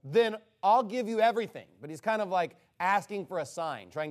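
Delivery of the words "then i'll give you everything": spiteful. Retold or imitated. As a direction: imitate a grudging dare to God. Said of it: "being spiteful".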